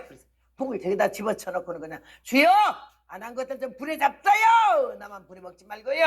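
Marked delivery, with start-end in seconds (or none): 2.2-6.0 loud, high protesting cry; throwing down the drum, she cries out to God loudly; retold cry to God. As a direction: fling the complaint up at heaven. Crying out to God in anger.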